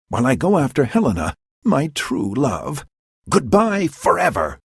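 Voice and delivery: lightly voiced scornful young man; dismissive young lover. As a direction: sneer it off, then swoon over Helena. Lysander spurns Hermia.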